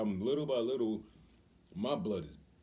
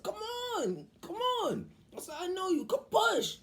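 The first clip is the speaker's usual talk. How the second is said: high, loud cheering-on; retold urgent urging; 3 dB louder, slower than usual. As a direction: yell it like a dad coaching labor. Father urging her through labor.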